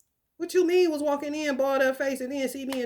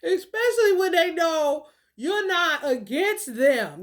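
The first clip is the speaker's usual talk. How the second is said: high laughing fit; speaking through laughter; 3 semitones higher than usual. Real, not acted. Long laughter.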